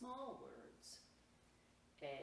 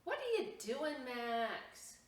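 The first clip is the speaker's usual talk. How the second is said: high, louder curious question; curious surprise; 8 semitones higher, 8 dB louder, slower than usual. Acted. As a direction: ask with sudden interest. Curious brother asking.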